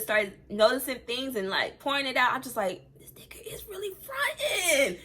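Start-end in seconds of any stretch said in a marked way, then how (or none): 3.0-5.0 high, laughing outburst of disbelief. Retold or imitated. Telling a friend about her ex, laughing in disbelief. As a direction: laugh it out, can't believe he's faking. Incredulous quote of her own reaction.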